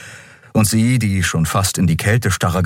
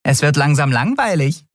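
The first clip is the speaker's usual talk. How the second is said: high tiny voice, teasing and amused; 8 semitones higher than usual. Acted. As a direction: tease him lightly. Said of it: "sagte Nelen amüsiert".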